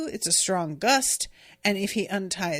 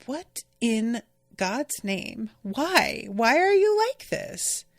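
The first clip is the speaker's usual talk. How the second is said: exasperated; slower than usual. Real, not acted. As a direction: throw up your hands, why are you like this. Exasperated reaction to the character.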